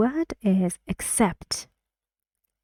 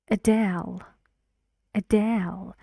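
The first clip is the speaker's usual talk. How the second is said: "Adele" with the weight on "dele"; light "A", strong "dele" in "Adele"; stress on second syllable. Shown as a demonstration. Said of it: "the stress is on the second".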